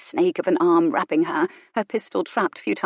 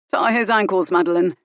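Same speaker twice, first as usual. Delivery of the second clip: curt order; 3 dB louder than usual. Acted. Colin orders Madeline.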